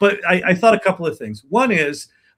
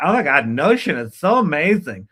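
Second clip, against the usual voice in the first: mock effusive gushing enthusiasm. Describing how people in the channel talk about Notion, imitating Notion users gushing. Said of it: "I don't know why they talk like that".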